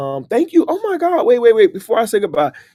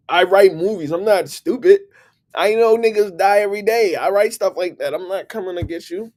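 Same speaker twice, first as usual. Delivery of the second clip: raised, worked-up protest; heated rant; 5 semitones higher, 4 dB louder than usual. Pretend. Ranting at a Craigslist stranger, worked up. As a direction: push back hard on the stranger.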